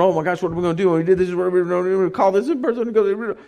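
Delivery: mock panicked rambling, rushed at first; hurried, mildly flustered muttering to oneself; freaked out. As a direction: babble through frantic worries. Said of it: "they're freaked out".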